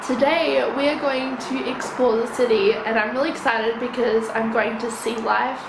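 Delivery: rough just-woke-up voice; a croaky morning voice, slightly rough. Real, not acted. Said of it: "my voice sounds really bad at the moment".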